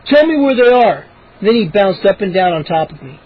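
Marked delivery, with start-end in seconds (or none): 0.0-1.1 insisting. A narrator's reading. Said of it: "Moose insisted".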